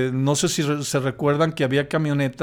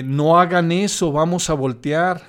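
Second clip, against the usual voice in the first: advertencia alzando un poco la voz y el tono; grito de advertencia contado; 4 semitones higher, 5 dB louder than usual. Retold or imitated. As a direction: imita un grito de alarma sin gritar del todo. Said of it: "les grité". (grito de advertencia a media voz)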